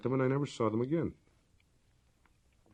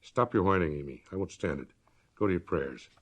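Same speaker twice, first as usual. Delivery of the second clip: stern sister ordering Amy to prayer, cold; 2 semitones lower than usual. Acted. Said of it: "said the cold voice".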